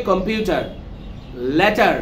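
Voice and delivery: American "কম্পিউটার, লেটার", both final r's sounded. Shown as a demonstration. Teacher reviewing American speech, final r in "কম্পিউটার, লেটার". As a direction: curl into an r ending "কম্পিউটার" and "লেটার". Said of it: "এরা হবে আমেরিকানরা".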